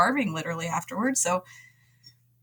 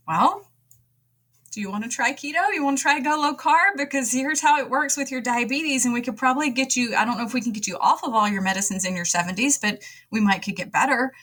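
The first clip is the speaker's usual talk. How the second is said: bright, higher, eager pitch to the patient; eager encouragement; 4 semitones higher than usual. Retold or imitated. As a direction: sell the idea with rising excitement. Nurse urging patient to try keto.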